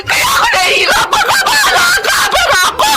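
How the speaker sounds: mataas na umiiyak na sigaw. Acted. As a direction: humagulgol habang sumisigaw. Galit at iyak sa pagtatalo. (asawang babae, umiiyak at sumisigaw sa asawa)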